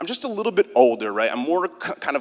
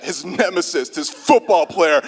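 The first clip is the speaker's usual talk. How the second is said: jock voice. Shown as a demonstration. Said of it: "I became Chet".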